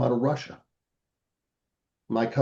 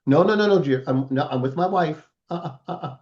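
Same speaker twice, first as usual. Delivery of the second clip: quick, higher-pitched string of protests; mock refusal; 4 semitones higher than usual. Cousin begs off, he's with his wife, playful refusal. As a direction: wave off the request before it's asked.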